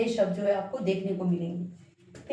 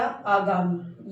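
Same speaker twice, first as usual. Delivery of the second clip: आगामी stretched slowly; slow drawn-out word; 3 semitones lower, much slower than usual. Shown as a demonstration. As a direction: draw out आगामी for the class. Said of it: "लेकिन आना था क्या?".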